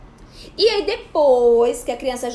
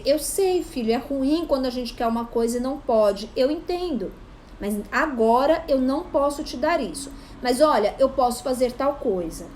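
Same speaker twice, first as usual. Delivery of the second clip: calm reassurance; 2 semitones lower than usual. Shown as a demonstration. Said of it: "aí você vai dizer".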